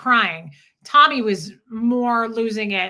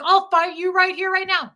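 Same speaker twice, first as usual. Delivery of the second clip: higher, louder mock threat; mocking tough guy; 8 semitones higher, 5 dB louder than usual. Wife mimics the neighbor threatening her. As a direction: sneer it like a bar bully. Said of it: "He was like".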